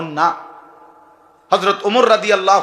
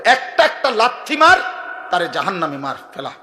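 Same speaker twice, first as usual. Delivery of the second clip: commanding angels. Acted. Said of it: "ফেরেশতাকে আল্লাহ বলবে".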